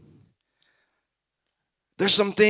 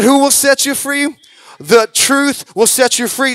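loud, higher rhetorical question; preaching call; 5 semitones higher, 4 dB louder than usual. Acted. Preacher quizzing the congregation, loud call. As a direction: challenge the room. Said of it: "I said".

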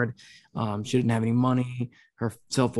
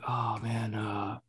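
lightly imitated dad, sighing before a casual question; a hint of doom on small talk; dad's ominous tone. Daughter mimicking dad's small talk, mildly ominous. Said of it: "your tone did not tell me".

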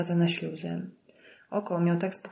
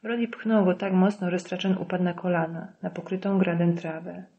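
ordinary delivery

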